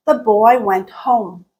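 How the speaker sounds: slow model sentence with a dip on "home"; falling intonation. Shown as a demonstration. Teacher showing what's happening to pitch, falling on "home". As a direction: let "home" sink in pitch at the end. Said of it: "we are dipping".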